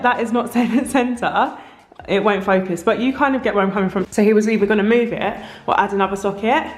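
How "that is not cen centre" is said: higher-pitched, laughing as you quote yourself; laughing retold objection. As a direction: break into a small laugh mid-protest. Retells own objection, laughing.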